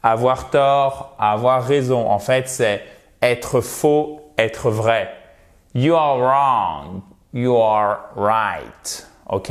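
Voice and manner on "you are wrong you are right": "wrong" begun on the R, drawn out; silent W. Shown as a demonstration. Teacher showing learners the silent W, slow careful pronunciation. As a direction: say "wrong" and "right" slowly, W left silent. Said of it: "Le W ne se prononce pas".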